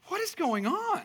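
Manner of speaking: high, laughing "what is going on"; laughing exasperation. Retold or imitated. Dad overwhelmed by laundry for five kids, laughing exasperation. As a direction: throw up your hands laughing at the endless laundry. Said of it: "I'm like".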